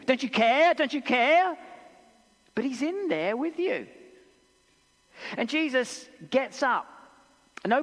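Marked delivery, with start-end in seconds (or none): 0.0-1.6 loud, high pleading cry; desperate plea. Acted. A believer crying out to Jesus in trouble, loud and desperate. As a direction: beg him to notice. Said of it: "maybe you've said something like that too".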